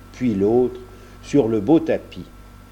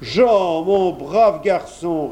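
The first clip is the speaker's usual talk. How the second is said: higher, drawn-out affectionate exclamation; hearty greeting; 7 semitones higher, 4 dB louder, much slower than usual. A narrator's reading. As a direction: welcome the boy with open arms. Kersac greets Jean heartily.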